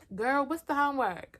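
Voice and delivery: mild mock of classmate's high voice; high gay classmate voice. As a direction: ask like a sassy classmate. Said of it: "I'm just gonna do his voice".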